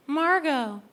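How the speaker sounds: high hopeful mom; imitating her mom guessing; mom answering. Mom answering Sprint's security question, high.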